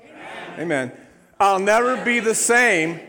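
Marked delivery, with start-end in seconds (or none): 1.4-3.0 loud, high, fervent declaration; full-force proclamation; really mean it. Shown as a demonstration. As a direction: shout the vow like you mean it. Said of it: "say it like you really mean it".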